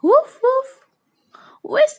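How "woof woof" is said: high, loud yappy woof; dog bark. Pretend. Teacher imitating dog bark.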